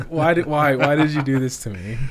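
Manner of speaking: lightly mock the betrayal; mock exasperated plea. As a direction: friend retelling his annoyance, half-joking exasperation. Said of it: "I was so mad at you".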